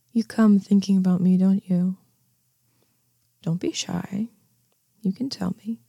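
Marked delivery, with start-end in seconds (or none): 3.4-5.8 hushed encouragement; soft coaxing whisper. Acted. Coaxing him to confess, softly whispered. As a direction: whisper it gently, inviting. Teasing seduction roleplay to listener.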